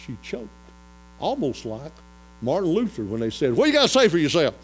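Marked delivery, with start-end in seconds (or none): 3.6-4.5 loud, higher mock interrogation; raised-voice challenge, acted out; acted accusation. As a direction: demand an answer from the accused. Acting out Luther's accusers.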